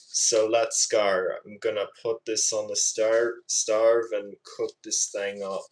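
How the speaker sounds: attempted Aussie accent with altered vowels; Australian accent. Shown as a demonstration. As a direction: imitate an Australian cook. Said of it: "trying to do a good Australian accent impression".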